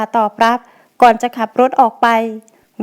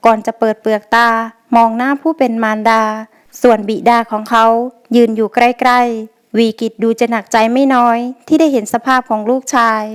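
usual speaking voice

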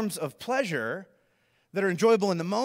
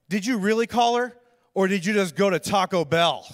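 imitated accusing interrogation; firm, mock-stern questioning; angry roommate; 4 dB louder than usual. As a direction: press for the truth, suspicious. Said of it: "he looks so angry".

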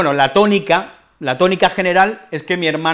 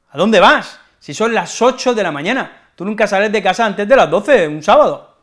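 incredulous scolding; 4 semitones higher than usual. Acted. Sibling scolding.

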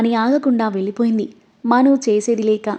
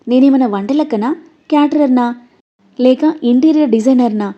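irritated retort; 2 semitones higher, 5 dB louder than usual. Acted. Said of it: "చిరెత్తుకొచ్చింది మనుకి".

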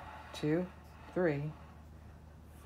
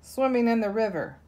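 higher, fast, eager cub voice; roaring; 5 semitones higher, 4 dB louder, faster than usual. Acted. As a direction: hurry the offer like a keen cub. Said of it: "roars the little lion cub".

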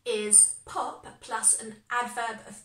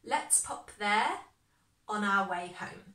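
slower, leaning on there; slow, stretched-out repeat. Shown as a demonstration. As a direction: draw out let's pop there for the class. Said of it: "an adverb of place".

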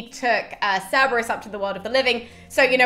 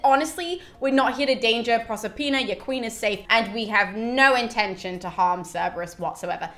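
chirpy Sibyl; 3 semitones higher than usual. Retold or imitated. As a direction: sweet-talk the ferryman onto the boat. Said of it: "the Sibyl just goes".

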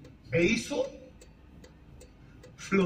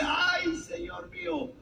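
high wail, much higher, trailing off; mock wailing cry; 9 semitones higher, 7 dB quieter, much slower than usual. Servant who lost the borrowed axe, wailing in mock panic. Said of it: "¿qué es lo que dice?".

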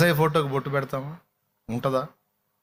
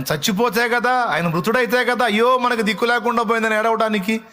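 high, loud lament; raised preaching; 8 semitones higher, 3 dB louder than usual. Acted. Preacher to church, raised mock lament. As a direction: cry it out to the congregation.

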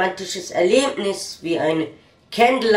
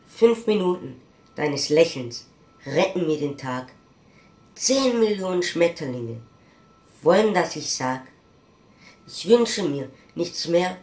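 gentle romantic declamation; romantic poet. Acted. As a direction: recite tenderly to a beloved, with pauses. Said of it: "Das Gedicht eines Romantikers".

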